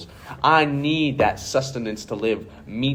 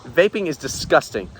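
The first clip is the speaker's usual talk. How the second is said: louder, rising indignant rant; angry rant; 4 semitones higher, 5 dB louder than usual. Acted. Mister Tate rants to the interviewer about vaping, louder and indignant.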